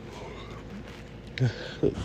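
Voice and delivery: long, quiet exhale; soft drawn-out breath out; weary sigh. Real, not acted. Speaker pausing while recalling Jazz's quarrel, long weary sigh. Exasperated pause in commentary.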